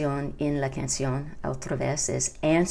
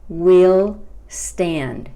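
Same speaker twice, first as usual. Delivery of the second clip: "we'll stand" louder, with "we'll" held long; slow model phrase; 7 dB louder than usual. Shown as a demonstration. Teacher modelling the song's line for Spanish-speaking learners, slow and emphatic. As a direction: say "we'll stand" slowly and distinctly.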